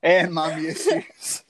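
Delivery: laughing through the words. Real, not acted. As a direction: chuckle while saying it. Joke about mommy issues.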